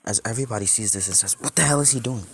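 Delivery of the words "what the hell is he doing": loud, high disbelief; stunned onlooker crying out; shocked outcry. Acted. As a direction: blurt it out, voice jumping up.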